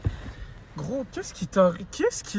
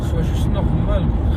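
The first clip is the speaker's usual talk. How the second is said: panicked shouting; 2 semitones lower, 8 dB louder than usual. Acted. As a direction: shout in panic while driving. Driver yelling.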